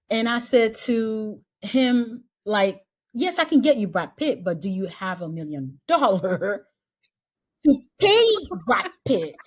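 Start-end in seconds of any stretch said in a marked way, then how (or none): 3.1-9.4 teasing disbelief, laughing; sarcastic retort. Retold or imitated. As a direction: scoff at the request, laughing it off. Mocking reply to unrealistic request.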